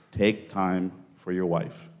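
slow, soft, deliberate repeat; slow earnest echo of the advice; slow sincere repeat. Retold or imitated. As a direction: let it sink in. Repeated slower for emphasis.

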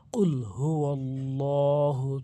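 slow, drawn-out tajweed chant; slow Arabic recitation; Quranic recitation. Shown as a demonstration. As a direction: recite it slowly with full lengthening.

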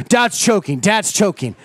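mock bystanders. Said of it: "People are gonna go".

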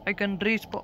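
half-landed Australian accent; attempted Australian accent. Shown as a demonstration. Gamer testing an Australian accent before giving up, unsure Aussie attempt. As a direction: try the line in Aussie and falter. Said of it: "can't do that Australian accent".

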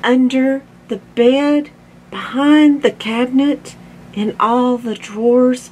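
lightly voiced mom checking each place; questioning mom. A narrator's reading.

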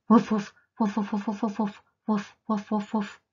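loud first barks then lighter woofs; dog barking. Acted. Teacher voicing noisy dog at the doorbell, barking. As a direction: bark like an excited dog.

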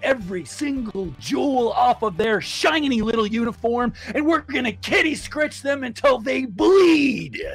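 fired-up coach rallying the team; rousing locker-room speech; pep talk shout. Acted.

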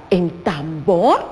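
tambor said slowly for the class; teacher modelling a word slowly; slow demo word. Shown as a demonstration. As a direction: stretch out tambor so they hear the lips. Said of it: "cuántas veces apretamos nuestra boca".

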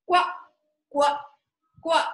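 cheery quacking duck noises; duck quacks. Acted. Teacher quacks like the duck for the class. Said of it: "making the quacking sound".

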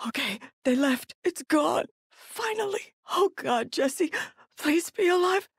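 acted distress, pained and searching; halting, anguished survivor monologue; desperate wounded parent. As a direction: play a hurt parent hunting for a lost child.

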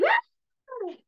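high startled "ah!"; a sudden puppet scare cry; grito de susto. Shown as a demonstration. (grito agudo de susto)

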